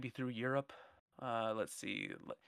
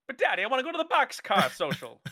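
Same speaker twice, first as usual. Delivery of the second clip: put-on whiny teen girl; 8 semitones higher than usual. Teen girl begging in 1930s film.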